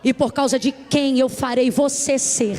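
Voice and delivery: God answering the doubting believer, slow and firm; solemn voice of God. Acted. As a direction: speak as God reassuring, deliberately. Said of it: "E Deus diz".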